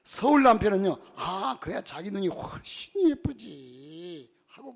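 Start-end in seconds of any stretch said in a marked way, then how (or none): 1.2-4.3 slow, earnest Seoul husband; earnest cheerful reply. Retold or imitated. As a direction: answer with eager conviction. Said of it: "힘주어서 흥겹게 진지하게 대답해". (힘주어 흥겹게 진지한 남편 대답)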